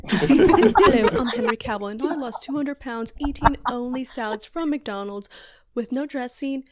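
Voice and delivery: badly faked British ad spokesman; horrible British accent. Henry Cavill pitching McDonald's salads, bad British accent. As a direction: put on a clumsy British accent. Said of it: "that was my horrible British accent".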